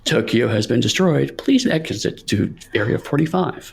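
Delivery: calm radio voice announcing disaster; deadpan emergency broadcast; emergency broadcast announcer. Pretend. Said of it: "if there was a nuclear holocaust going on, I would want to hear your voice".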